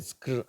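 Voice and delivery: "ஸ்க்ர்" as one blended skr; SCR sound. Shown as a demonstration. Teacher naming the cluster sound, "ஸ்க்ர்" as skr. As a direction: say "ஸ்க்ர்" as s and k rolled into r. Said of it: "அப்படிங்கிற உச்சரிப்பு".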